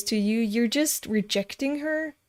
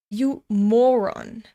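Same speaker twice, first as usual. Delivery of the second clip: slow annoyed insult; 4 dB louder, slower than usual. Real, not acted.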